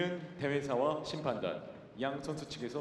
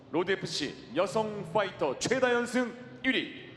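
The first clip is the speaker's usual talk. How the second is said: booming ring announcer intro; arena announcer; 2 semitones higher than usual. Acted. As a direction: announce the fighter to the crowd.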